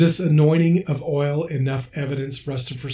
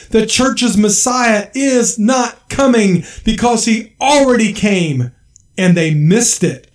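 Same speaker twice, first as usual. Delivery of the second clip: fiery preaching; 6 semitones higher, 4 dB louder than usual. Acted. Preacher declaring the Messiah is not coming, fiery loud preaching. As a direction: hammer every line home to the flock. Preacher builds to full force.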